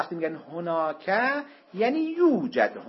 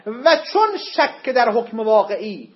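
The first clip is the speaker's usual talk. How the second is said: slow emphasis; 4 semitones higher, 7 dB louder, slower than usual. Shown as a demonstration. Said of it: "teacher stresses key sentence".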